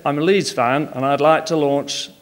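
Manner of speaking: put-on a light Yorkshire accent for a Leeds fan; lightly put-on Yorkshire accent, only a hint. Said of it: "best Yorkshire accent".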